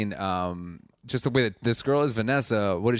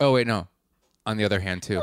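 plain

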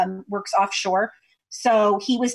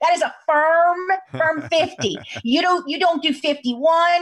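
put-on Louisiana accent spoken at a higher pitch. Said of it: "he's talking in his Louisiana accent".

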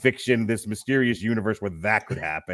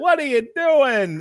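put-on screaming, higher and louder; 5 dB louder than usual. Retelling a scene where Gus screams at Michael Douglas: imitating Gus screaming. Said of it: "Gus screaming at Michael Douglas".

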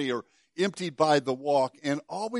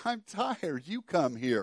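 whiny, complaining, put-upon voice; 4 dB quieter than usual. Retelling how he responded once he knew the gig was up, mock-whiny voice. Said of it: "with my best whiny voice".

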